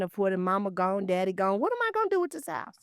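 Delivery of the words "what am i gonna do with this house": worried. Retold or imitated. Voicing a worried heir.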